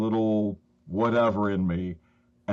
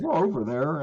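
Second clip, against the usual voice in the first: imitated Southern boy, higher pitched; a child's Southern accent, retold higher; little Southern accent; 7 semitones higher than usual. Little boy answers the stranger, mock Southern accent. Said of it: "this little Southern accent".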